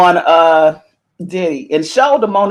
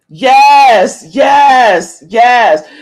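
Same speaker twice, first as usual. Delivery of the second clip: excited yes; 3 semitones higher, 5 dB louder, much slower than usual. Real, not acted. Cheering agreement at news.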